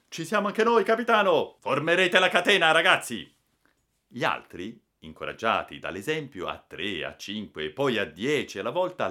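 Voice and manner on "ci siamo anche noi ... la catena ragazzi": high, loud rallying cries; eager volunteers shouting. A narrator's reading. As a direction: shout up bravely to offer help. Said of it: "balzarono sulla tolda gridando". (grida coraggiose di chi si offre)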